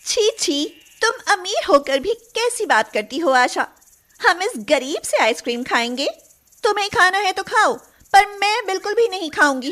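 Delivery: put-on high, disgusted rich girl; a touch of spoiled snob; snobbish disgust. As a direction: turn up your nose at street food. Snobbish girl refuses street ice cream.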